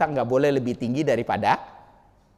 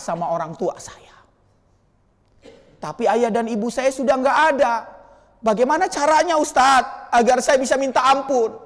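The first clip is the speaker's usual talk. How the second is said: crying; 7 semitones higher than usual. Retold or imitated.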